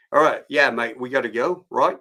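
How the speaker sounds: breezy Australian guide, punched at the start; mock Australian. Skydive guide hurrying a customer out, mock Australian. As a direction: imitate a casual Aussie bloke. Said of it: "The guy's like".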